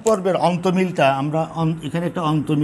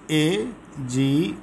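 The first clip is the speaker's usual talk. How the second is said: slow syllable split; 2 semitones lower, 3 dB quieter, much slower than usual. Shown as a demonstration. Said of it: "শেষে থাকলো দু মাত্রা".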